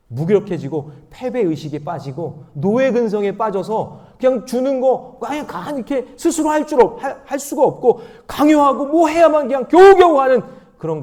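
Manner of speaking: preaching that climbs high and loud; forceful preaching. Real, not acted. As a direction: build to a high-pitched, impassioned rebuke. Preaching builds to full force.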